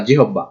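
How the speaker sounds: জিহব্বা as "ji-hob-ba"; the faulty three-beat "ji-hob-ba"; second mispronunciation. Shown as a demonstration. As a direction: say জিহব্বা with a full h and doubled b. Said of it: "আসলে উচ্চারণটা এরকম না".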